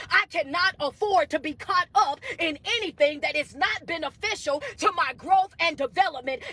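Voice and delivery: firm, emphatic preacher delivery; motivational preaching. Real, not acted. Coach declaring the need to guard focus, motivational preaching. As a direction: declare it with mounting conviction.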